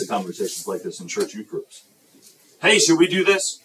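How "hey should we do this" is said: high, louder peppy pitch; eager suggestion. Acted. Leader pitching an idea to youth group, eagerly. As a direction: propose it with bouncy enthusiasm.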